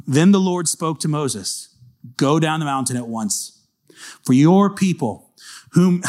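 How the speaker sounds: slow, emphatic Bible reading with weight on key words; scripture reading. A narrator's reading. Preacher reading God's order to Moses, slow and emphatic. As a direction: read God's command out firmly, deliberately. Reads scripture aloud forcefully.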